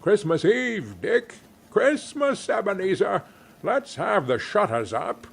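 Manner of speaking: high, bouncing hearty orders; jolly cry. A narrator's reading. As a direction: cheer the boys into action. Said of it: "cried old Fezziwig".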